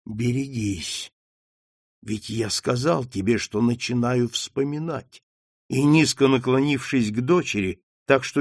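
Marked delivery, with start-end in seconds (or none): 0.0-5.2 slow warning. Acted. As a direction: drop your voice and warn her slowly. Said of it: "медленно сказал".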